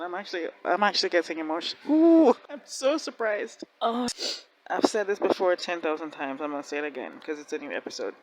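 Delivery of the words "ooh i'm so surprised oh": sarcastic surprise. Real, not acted. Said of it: "I'm getting emotional".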